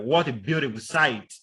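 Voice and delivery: BEAUTIFUL lifted, then SIGHT let fall; falling exclamation intonation. Shown as a demonstration. Lecturer demonstrating an exclamation to students, falling intonation. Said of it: "Then we have exclamations".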